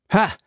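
short sharp "Ha!"; sudden gasped exclamation; shocked cry. A narrator's reading. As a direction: cry out as if shot through the heart. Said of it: "schrie der Musketier".

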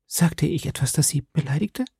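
anxious concern. A narrator's reading. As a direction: ask gently, afraid of having offended. Besorgte Nachfrage der armen Novizin. (zaghaft besorgt, mit hoher Stimme)

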